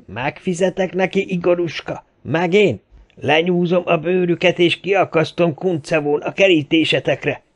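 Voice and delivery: high, anguished lament; wailing vow of revenge. A narrator's reading. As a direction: cry out in grief and fury. Wailing vow of revenge over body. (magas hangon, kétségbeesve jajveszékelve)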